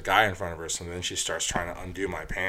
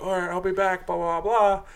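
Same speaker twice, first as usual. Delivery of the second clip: put-on drunk girl voice; 9 semitones higher than usual.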